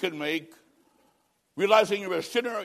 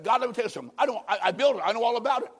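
raised, indignant know-it-all Noah; mock stubborn Noah; 3 semitones higher than usual. Noah arguing with God about entering the ark, indignant. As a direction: insist you know it all. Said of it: "He said".

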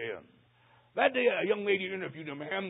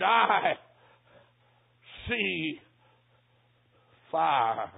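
trembling voice; 2 semitones lower, much slower than usual. Retold or imitated. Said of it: "in a trembling voice".

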